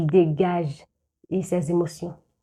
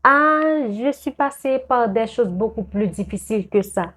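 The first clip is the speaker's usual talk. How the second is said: mocking one-upper; 4 semitones higher than usual. Friend who compares problems, mildly mocking tone. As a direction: lightly voice a dismissive friend topping the story. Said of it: "Vous dites".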